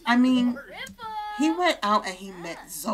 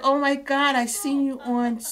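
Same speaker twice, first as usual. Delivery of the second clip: excited fan gush; 5 semitones higher, 5 dB louder than usual. Acted. Voicing excited Sims fan.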